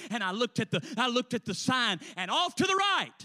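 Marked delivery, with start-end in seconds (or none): 2.2-3.1 pitched way up, climbing excitement; excited build-up. Acted. Preacher telling what he spotted from the road, excitedly high. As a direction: soar upward as if spotting a marvel. Building suspense before the sign.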